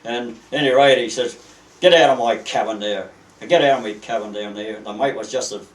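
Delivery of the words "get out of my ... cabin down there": retold angry order, a touch louder; mild mock rage; raging and ranting. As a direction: imitate the captain ordering them out, voice slightly raised. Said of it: "he's raging and ranting".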